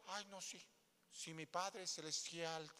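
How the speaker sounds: soft, slow, overly devout mock prayer; a hint of a sanctimonious believer; mock pious churchgoer. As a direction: play the fake-holy church member. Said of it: "aquí en la iglesia no todos".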